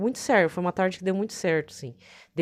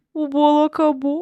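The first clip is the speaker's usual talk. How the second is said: put-on awkward, sheepish voice, higher and louder; 8 semitones higher, 8 dB louder than usual. Retelling a music ministry woman's reply about the cake: imitating an awkward announcement. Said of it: "a moça lá sem jeito".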